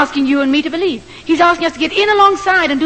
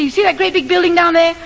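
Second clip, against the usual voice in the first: urgent raised voice, pleading; half-shouting at the surprised roofer; mild retold shouting; 4 semitones higher than usual. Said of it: "being shouted at by a white woman".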